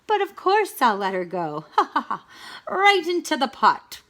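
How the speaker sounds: cackling villain gloating; evil gloating. Acted. Wolf gloating over the pot, laughing wickedly.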